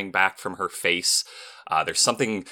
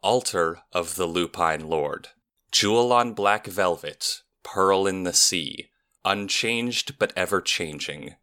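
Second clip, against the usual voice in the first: riddle recitation. Acted. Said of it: "recites the following".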